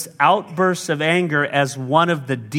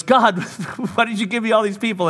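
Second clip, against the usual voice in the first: exasperated Moses; 7 semitones higher than usual. Acted. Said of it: "And he goes".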